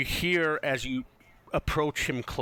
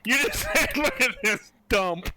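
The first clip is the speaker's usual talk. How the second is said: higher, louder, laughing recap; amused disbelief; 8 semitones higher, 5 dB louder than usual. Real, not acted. Game master teasing player over the remark, laughing. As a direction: laugh while quoting it back incredulously.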